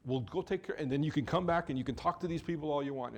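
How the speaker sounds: fast, pressing plea to hurry; hurried plea. Acted. Jairus pushing Jesus to go, quick and urgent. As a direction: Jairus rushing Jesus to leave.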